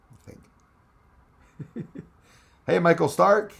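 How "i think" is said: whispered aside. Real, not acted. Unvoiced aside after "twice a year.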